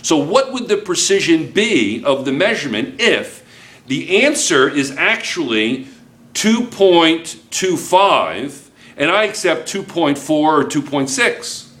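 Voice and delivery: ordinary delivery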